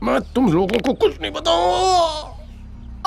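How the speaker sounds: slow, strained refusal stretched into a wail; pained defiance. Acted. Captive refusing to tell interrogators anything, pained defiance. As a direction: refuse through the pain, dragging out the last word.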